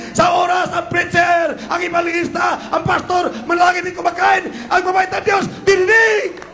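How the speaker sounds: high, shouted sermon rebuke; full-force preaching. Real, not acted. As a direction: preach it hard, driving each phrase upward.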